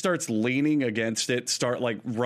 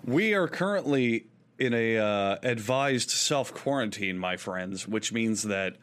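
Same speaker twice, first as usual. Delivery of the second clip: conversational host-read advert; podcast ad read. Acted. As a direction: sell it to the listeners, stretching key words. Reads a sponsor ad.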